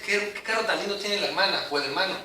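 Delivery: marvelling at home. Retold or imitated. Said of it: "y dices".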